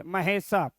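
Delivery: महेशा with a long final aa; Sanskrit form shown. Shown as a demonstration. Teacher shows the Sanskrit name ending, महेशा with long aa. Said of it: "दो गोबिंदी मारिए".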